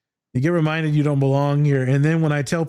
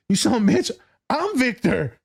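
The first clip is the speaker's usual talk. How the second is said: angry character; 8 semitones higher than usual. Retold or imitated. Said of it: "he's like".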